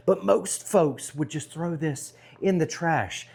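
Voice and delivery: loud upbeat barbecue host; big cheerful pitch to the camera; jolly loud grill dad. Acted. Energetic vlog intro.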